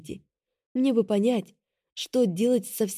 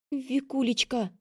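pleading; 5 semitones higher, 4 dB quieter, slower than usual. A narrator's reading. Sister pleads, distraught.

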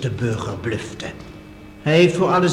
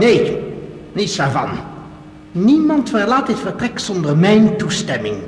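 stern refusal; 4 dB louder than usual. Acted. Armed professor refuses, threatening.

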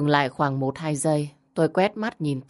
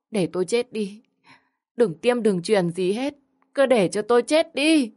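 high, rising mock-tragic wail building to a cry; wailing lament; 5 semitones higher than usual. Grieving sister wailing to the family at the hospital bed, high rising lament. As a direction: wail it out like a grieving mother putting on a show. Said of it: "nước mắt đầm đìa bi ai".

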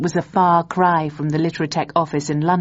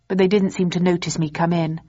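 ordinary delivery, nothing marked

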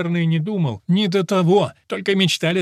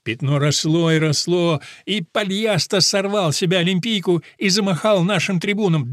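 plain reading voice

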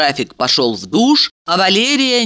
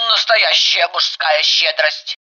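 approving friend voice. Acted.

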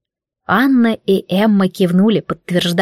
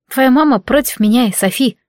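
grumbled; 3 semitones higher than usual. Acted. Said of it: "буркнула я".

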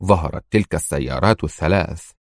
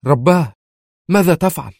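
higher-pitched, dismayed exclamation; alarmed cry; 9 semitones higher, 3 dB louder than usual. A narrator's reading. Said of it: "فهتفت منى منزعجة". (هتاف منزعج)

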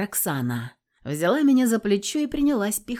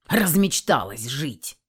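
lower, slow grumble; irritated grumble; 5 semitones lower, slower than usual. Acted. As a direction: grumble it, mildly annoyed. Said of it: "раздражённо проворчал Корнилов".

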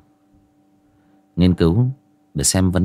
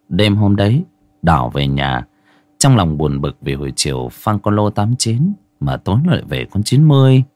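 story narration. Acted. Reads ghost story as audio test.

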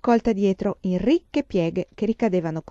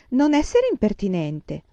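prim reproach; 3 semitones higher, 4 dB louder than usual. Acted. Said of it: "esclamò Mary".

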